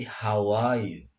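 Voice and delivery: "how are you" as "how-wah-you"; dropped R. Shown as a demonstration. Teacher shows how natives say it, dropped R. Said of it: "are-nya sering tidak terdengar".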